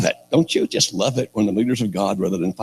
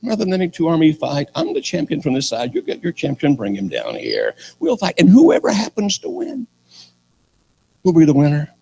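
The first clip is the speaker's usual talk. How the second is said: hammed-up challenger, mostly pitched up; giant champion; 9 semitones higher than usual. Preacher plays giant challenging the army, mock champion's call. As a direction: call out a challenge across the valley. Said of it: "that dude will walk into the valley and say".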